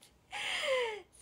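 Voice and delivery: high, loud burst of laughter. Real, not acted. Idol chatting about ending her stream, high laugh. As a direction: let out a sudden high laugh.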